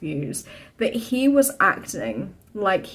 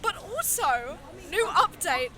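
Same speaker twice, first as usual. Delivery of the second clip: hushed; 3 semitones higher, 10 dB quieter than usual. Real, not acted. Quiet update from a theatre interval.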